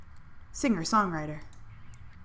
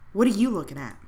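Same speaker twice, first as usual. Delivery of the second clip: hostile snap; 6 dB louder than usual. Acted. Snapping at staring smokers.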